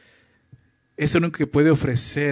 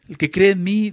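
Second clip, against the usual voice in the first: "El que cree en mí" lifted high and louder, "cree" pushed up; emphatic quote; 5 semitones higher, 5 dB louder than usual. Shown as a demonstration. Preacher proclaiming the verse to the church, emphatic and loud. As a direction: proclaim it with force.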